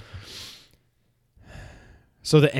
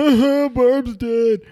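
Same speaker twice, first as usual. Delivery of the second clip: high, slow sarcastic drawl; mocking how little Barb's death mattered, high and slow; mock indifference; 11 semitones higher, 6 dB louder, much slower than usual. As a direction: shrug it off sarcastically.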